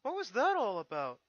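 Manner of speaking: put-on high, loud young dragon voice; Spike's voice. Young dragon asks Twilight about the letter, high and eager.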